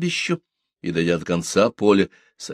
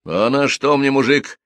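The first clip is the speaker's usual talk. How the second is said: grim answer with raised voice; gloomy reply; 6 semitones higher, 4 dB louder than usual. A narrator's reading. Strict widow writes off her runaway groom, gloomily. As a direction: dismiss him darkly. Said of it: "мрачно отвечает Ленка".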